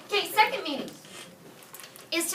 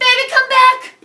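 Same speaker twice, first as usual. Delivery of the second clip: higher, louder mock plea; playful belting; 10 semitones higher, 14 dB louder than usual. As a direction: belt it like a cheesy love song. Teacher jokes with song line.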